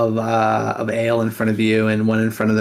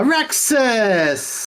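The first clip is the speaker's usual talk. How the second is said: high, delighted call of the name; excited greeting; 11 semitones higher than usual. Acted. Large Marge greets Rexus across the tavern, excited high call. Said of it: "she goes".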